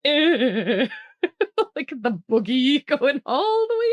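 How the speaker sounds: a loud laughing ew of disgust. Pretend. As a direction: pull back grossed out and giggle. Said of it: "Bear's like".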